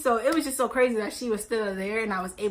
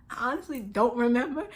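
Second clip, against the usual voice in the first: laughing; 4 dB quieter than usual. Real, not acted. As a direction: repeat "I honestly don't remember" softer through a laugh.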